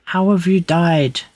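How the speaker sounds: who died here, alarmed; shocked outburst. Real, not acted. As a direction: streamer reacting to a follower's sudden death, shocked. Shocked at follower death.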